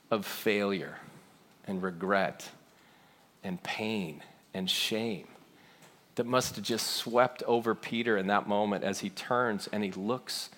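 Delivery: hushed, sorrowful telling. Real, not acted. Preacher telling of Peter's bitter shame, hushed and sorrowful. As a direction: let each phrase sink quietly.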